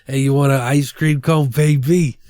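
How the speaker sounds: hammed-up seductive offer; mock sleazy come-on. Imitating the movie's ice cream dude flirting, mock sleazy. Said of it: "super fucky".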